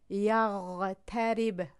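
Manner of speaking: یغترب stretched very slowly, غ rasped from the upper throat; throat letter demo. Shown as a demonstration. Teacher showing students the upper throat letter, very slow. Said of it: "از اولی گلو".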